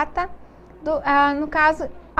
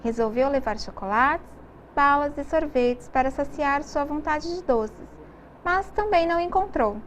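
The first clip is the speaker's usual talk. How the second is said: slow careful rereading. Shown as a demonstration. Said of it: "eu vou ler novamente, prestem atenção".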